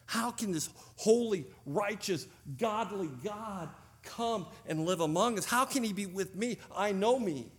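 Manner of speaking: a Jewish believer asking how God could live among us, in disbelief; incredulous. Retold or imitated. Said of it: "that was like".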